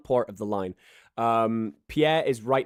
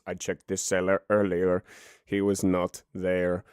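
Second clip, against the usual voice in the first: a touch lower, slower servant reply; lightly voiced assistant; 5 semitones lower than usual. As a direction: answer the chef slowly and low. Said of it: "He says".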